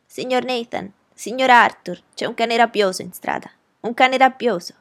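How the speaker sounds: high, loud cry of alarm; shouting. A narrator's reading. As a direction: call out an urgent warning to someone behind a closed door. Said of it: "Allora gridò".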